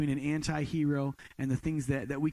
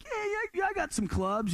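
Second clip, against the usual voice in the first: overeager yes. Retold or imitated. Eager to impress friend.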